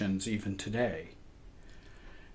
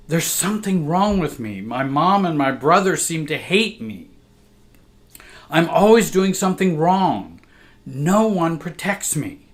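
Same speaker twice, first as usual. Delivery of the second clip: put-on scared little girl; 6 semitones higher, 5 dB louder than usual. Child pleading to absent sister.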